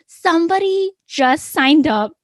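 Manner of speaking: high and loud, bursting with news; excited. Retold or imitated. Wife tells husband about the first member, thrilled. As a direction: blurt it out thrilled. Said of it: "And I said".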